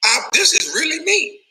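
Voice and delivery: laughing through the words; high, laughing delivery. Real, not acted. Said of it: "I've been laughing like a motherfucker".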